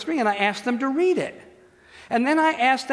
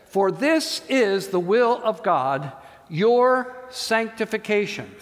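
slow scripture reading; slower than usual. Acted.

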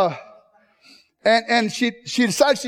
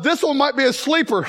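smug inner thought; 4 semitones higher than usual. Retold or imitated. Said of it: "I thought to myself".

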